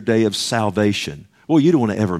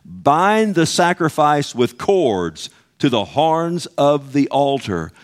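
slow, raised reading of the verse, each word weighed; slow scripture reading; 4 semitones higher, slower than usual. Shown as a demonstration. Preacher reading the verse to the congregation, slow and solemn. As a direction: read "Bind the sacrifice" slowly and gravely. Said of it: "Here it is".

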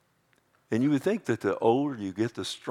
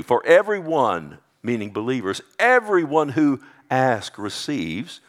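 forceful preaching; 3 semitones higher, 5 dB louder than usual. Acted.

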